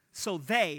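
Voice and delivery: they leaned on, rising; stress on they. Shown as a demonstration. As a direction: lean into they so all of them is heard. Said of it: "you heard the they part?".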